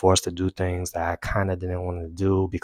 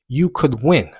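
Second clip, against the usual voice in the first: slightly raised "You could win"; encouraging inner voice; 4 semitones higher, slower than usual. Retold or imitated. Runner repeating it to himself, encouraging. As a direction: cheer yourself on at normal pace. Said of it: "the voice kinda changed".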